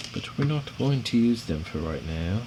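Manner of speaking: put-on playful, half-Australian British accent; bad British accent. Builder joking to viewers mid-build, bad British accent. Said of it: "Sorry about the accent".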